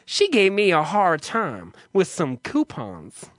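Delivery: slow, drawn-out effeminate complaint; feminine male clerk. Retold or imitated. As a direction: imitate the campy clerk grumbling, stretching the words. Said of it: "He's very feminine sounding".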